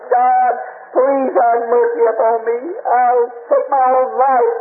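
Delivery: slow, pleading prayer with a touch of tears; desperate prayer. Retold or imitated. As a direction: beg God slowly, on the edge of breaking. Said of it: "I started crying".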